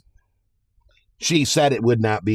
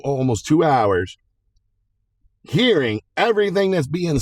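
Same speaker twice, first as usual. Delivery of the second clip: a hint of a stern judge, higher; imitating the judge; 5 semitones higher than usual. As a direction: lay it out like a firm judge scolding lawyers. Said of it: "judge looked and goes".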